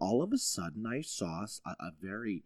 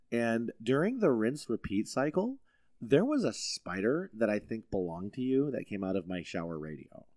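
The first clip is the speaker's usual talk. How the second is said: polite complaint call. Retold or imitated. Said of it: "I called them up and I said".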